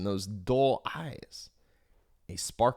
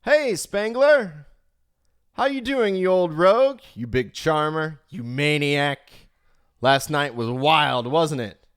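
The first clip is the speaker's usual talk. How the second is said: cheery broker reply; 3 semitones higher, 6 dB louder than usual. Retold or imitated. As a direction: hail your mate across the line like an East London broker. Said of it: "reply with something along the lines of".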